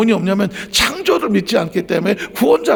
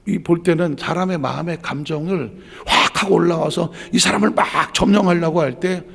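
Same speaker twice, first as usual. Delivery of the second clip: ordinary delivery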